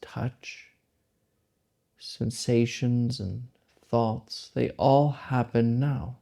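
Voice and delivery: slow meditation guidance with long pauses; unhurried, spacing each phrase out to let it settle; guided meditation. Acted. Guide leading listeners into the present moment, meditative and slow.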